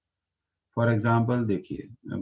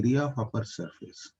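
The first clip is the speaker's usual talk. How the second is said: slow, deliberate, word by word; slow, careful dictation; said slowly; 3 dB quieter, much slower than usual. Shown as a demonstration. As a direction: spell out "area of upper surface" slowly with weight on "area". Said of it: "आप इसे ऐसे बोलिए".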